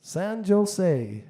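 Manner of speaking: "San Jose" pitched high and loud with an English J; Irish accent, hard J. Acted. Irishman naming his destination to a Californian, "San Jose" with a J in Irish accent. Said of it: "In an Irish accent, he said".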